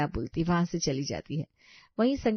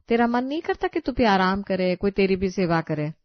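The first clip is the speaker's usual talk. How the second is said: louder, affectionate telling-off; fond scolding; 2 semitones higher, 5 dB louder than usual. Acted. Mother-in-law to hardworking daughter-in-law, fond loud scolding. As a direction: chide her lovingly.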